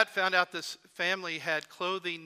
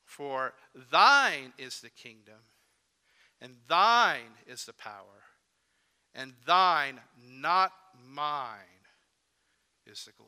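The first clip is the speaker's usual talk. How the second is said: "thine" stretched and loud, slow; slow, solemn emphasis on "thine"; stress on thine; 4 semitones lower, 7 dB louder than usual. Shown as a demonstration. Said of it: "to emphasize the words, thy".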